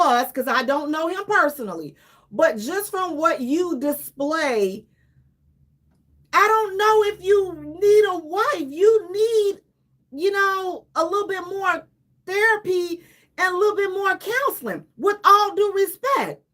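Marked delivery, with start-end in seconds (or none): 6.3-16.4 higher, near-tearful plea to Tyrese; begging Tyrese to get therapy, earnest and a bit choked; earnest heart to heart. Real, not acted. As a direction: talk to him heart to heart, pleading.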